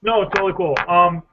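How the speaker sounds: talking while chewing; words around an ice cube. Real, not acted. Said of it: "I'm chewing an ice cube here".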